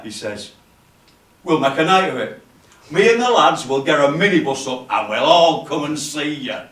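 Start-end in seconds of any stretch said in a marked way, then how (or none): 1.4-6.6 loud, emphatic promise to turn up; rally the whole room loudly; hearty workmate. Acted. Workmate promises to bring the lads along, hearty.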